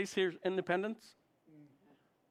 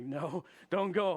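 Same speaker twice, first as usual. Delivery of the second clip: laughing mock warning; 3 dB louder, slower than usual. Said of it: "I'm like".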